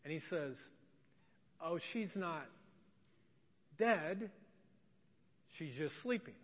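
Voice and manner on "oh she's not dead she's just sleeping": soft, lower voice with long pauses; calm the mourners quietly, unhurried; gently reassuring. Retold or imitated. Calm Jesus amid mourners, retold.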